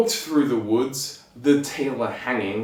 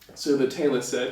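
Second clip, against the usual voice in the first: usual speaking voice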